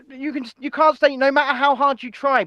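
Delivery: mock very-serious warning; Rishi Sunak. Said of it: "Very serious".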